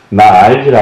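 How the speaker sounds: fond mock Jeolla plea; Jeolla dialect. Monk imitating Jeolla pilgrims to an amused audience, Jeolla dialect. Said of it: "전라도 분들 ... 하시는 말씀이란".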